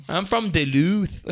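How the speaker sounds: put-on Minnesota accent. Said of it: "the Minnesota one".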